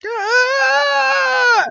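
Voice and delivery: high creature shout; a sudden high shout of pain; mock Pokemon yelp; Lapras cry. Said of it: "she's like".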